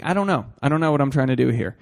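slightly winded, breathy talk; out of breath. Real, not acted. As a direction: talk while short of breath. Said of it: "but I am out of breath".

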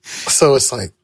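talking while high; stoned. Real, not acted. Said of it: "You know I'm high right now".

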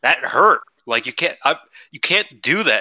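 high, loud mock whine of pain; hammed-up hurt complaint; hurt referee. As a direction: play the referee yelping and protesting. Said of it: "And he was like".

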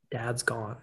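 very soft, grave retelling; hushed bad news. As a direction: break a death gently, barely voiced. Retelling brother breaking news of death.

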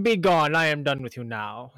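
lordly "be gone", then flat; brushing off a servant like a queen; mock royal dismissal. Retelling Jess waving off the waitress, mock regal dismissal. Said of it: "And that's how she did it".

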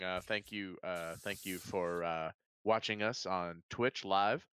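lightly voiced radio announcer; smooth radio voice. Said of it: "This is my smooth radio voice".

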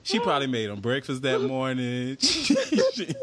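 high incredulous voice full of laughter; laughing while asking what's wrong with him. Real, not acted. Mock-asking the husband, laughing.

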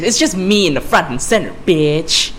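lightly voiced sassy villainess; botched New York accent; Harley Quinn. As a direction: gloat in a put-on character voice. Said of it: "That was a shitty Harley Quinn impression".

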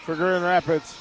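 measured volleyball play-by-play, key words punched; live play-by-play. Real, not acted. Radio announcer calls the point to listeners, play-by-play. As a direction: call the rally as it unfolds.

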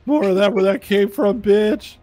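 loud, high-pitched taunting shout; full-voiced battle taunt; triumphant yell. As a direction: yell it at the foe in character. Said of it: "I'm gonna yell".

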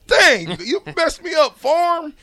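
sudden high excited outburst; exclaiming. Real, not acted. Caught off guard by mistake.

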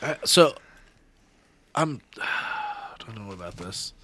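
talking around a chew; words past a wad of chew; chewing tobacco. Real, not acted. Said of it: "I just put a chew in too".

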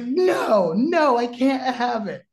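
high, loud refusal as Bobby; high agitated refusal. Retold or imitated. Bobby refusing a daughter's partner, high and loud. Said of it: "He's like".

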